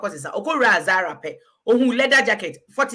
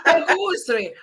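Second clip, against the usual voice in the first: laughing; 5 semitones higher, 5 dB louder than usual. Real, not acted. Laughs back at the friend.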